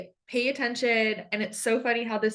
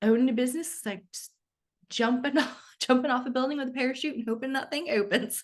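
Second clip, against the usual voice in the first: put-on light Southern belle accent, fast and a bit higher; imitating Southern accent; 4 semitones higher, faster than usual. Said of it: "her little Southern accent".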